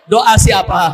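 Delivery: "Doa siapa?" called out loud and quick; emphatic question. Real, not acted. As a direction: fire "Doa siapa?" at the crowd. Preacher asks the crowd, twice.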